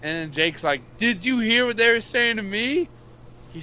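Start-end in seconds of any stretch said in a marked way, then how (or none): 1.0-2.9 much higher, lightly mocking whine; mock whiny teammate. Mimicking the player complaining to the ref, mock whine. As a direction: poke fun at the player's complaint.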